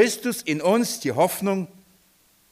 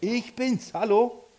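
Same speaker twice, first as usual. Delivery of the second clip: a light, higher, friendly greeting; Jesus greeting; 7 semitones higher, slower than usual. Acted. Jesus greeting his frightened disciples, lightly voiced and friendly. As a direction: say hello like an old friend dropping by.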